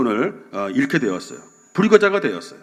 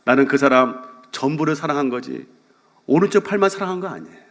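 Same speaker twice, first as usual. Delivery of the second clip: sincere repeat. Retold or imitated. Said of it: "제가 그 말 듣고 너무 은혜를 받았어요".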